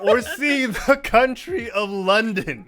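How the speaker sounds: slow, laughing "the country of London"; mocking with a laugh. Contestant teasing the host's slip, slow and laughing. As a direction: drawl "the country of London" slowly through a laugh.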